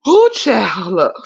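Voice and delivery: breathy whispered gasp of laughter; whispered laughing gasp. Real, not acted. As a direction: barely gasp it out. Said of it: "Let me wipe my tears".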